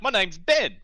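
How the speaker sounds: put-on lightly done northern English accent. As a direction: imitate a Northern England accent. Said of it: "in his northern accent".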